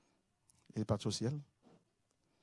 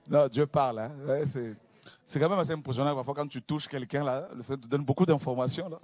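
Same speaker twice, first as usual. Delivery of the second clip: enthousiaste; 5 semitones higher, 5 dB louder than usual. Real, not acted. S'enthousiasme devant l'assemblée.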